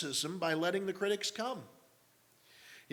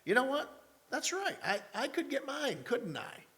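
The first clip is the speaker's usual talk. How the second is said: high, sudden realization in the head; mock-excited thought, pitched up; inner voice realizing; 9 semitones higher than usual. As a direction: lift it up like a lightbulb moment. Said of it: "I said in my head".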